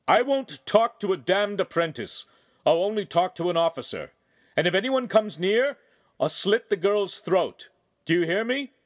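loud, high furious threat; angry shouting. A narrator's reading. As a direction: bellow a threat across the clearing. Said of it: "rose up on his saddle and shouted".

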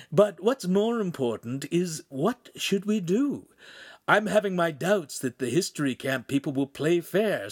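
earnest character voice making a proposal; Pan's character voice. Acted.

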